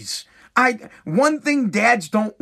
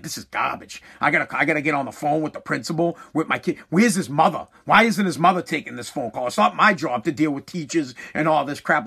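grumbling dad; 5 semitones lower than usual. Retold or imitated. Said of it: "My dad's just like".

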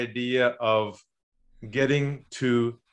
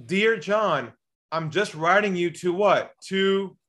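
mock email voice; 6 semitones higher, slower than usual. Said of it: "and you write".

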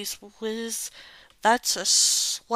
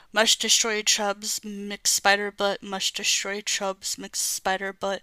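lightly voiced robot chant; monotone robot repeating orders. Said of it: "robotic chubs".

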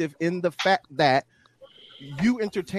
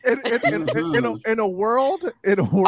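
stifled giggles; 5 semitones higher, 3 dB louder than usual. Real, not acted. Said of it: "I'm trying to keep a straight face".

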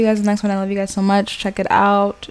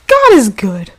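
louder, emphatic God is good; emphatic louder repeat; 3 semitones higher, 6 dB louder, slower than usual. Real, not acted. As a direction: say it again, louder.

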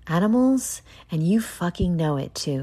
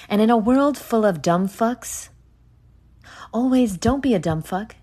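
mock movie trailer voice; 5 semitones higher than usual. Podcaster hamming up a trailer line for listeners, mock trailer voice. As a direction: sell it like an epic film trailer, half joking. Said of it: "No, that doesn't sound good".

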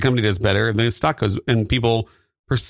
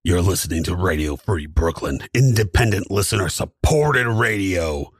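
light station ID; 4 semitones lower than usual. Pretend. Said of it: "a little lighter on the feet".

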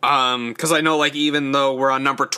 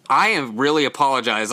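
throat catching, choking a little; choking on a drink. Real, not acted. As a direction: talk through a choking throat. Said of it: "I'm choking".

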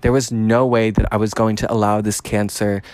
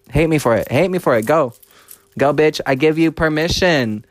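higher, daring, taunting the haters; taunting defiance; 4 semitones higher than usual. Real, not acted. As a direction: egg them on, cocky.

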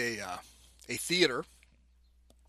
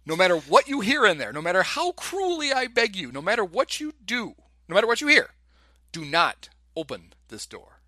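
dramatic doctor; 4 semitones higher than usual. Retold or imitated. Retelling the doctor's speech.

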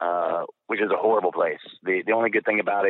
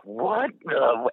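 higher, startled half-question; mock disbelief; 6 semitones higher than usual. Airman seeing the second plane crash, mock disbelief. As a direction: lightly act out being taken aback.

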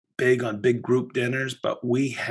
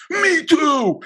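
high mock reply; 5 dB louder than usual. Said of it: "And he goes".

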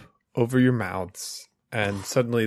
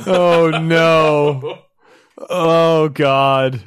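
loud, higher cry of dismay; 4 semitones higher, 6 dB louder, much slower than usual. Acted. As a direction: gasp it out in horror. GM reacts to drowning scene.

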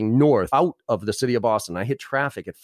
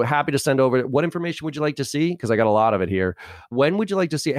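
brighter and higher, eager to help; upbeat pitched-up rep voice; 3 semitones higher than usual. Shown as a demonstration. Rep pitching higher and brighter for the prospect. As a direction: sound keen and higher than the explainer. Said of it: "So I go".

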